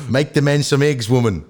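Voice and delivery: half-successful New Zealand accent. Shown as a demonstration. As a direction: try a quick Kiwi accent. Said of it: "go New Zealand again".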